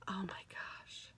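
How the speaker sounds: slow breathy-sounding awed whisper. Real, not acted. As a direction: whisper slowly in wonder.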